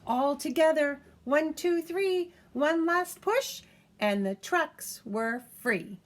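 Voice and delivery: high, loud, slowing build; cheering the final heave; counting the push. A narrator's reading.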